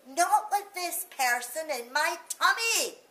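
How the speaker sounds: put-on a child insisting desperately; child begs Mummy to believe; pleading child. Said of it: "I cried".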